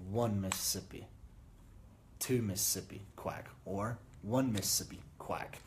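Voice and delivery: slow, spaced-out counting; counted slowly. Shown as a demonstration. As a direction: count each beat. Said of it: "space it out".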